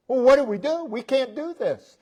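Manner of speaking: coming unglued. Retold or imitated. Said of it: "You may be coming unglued".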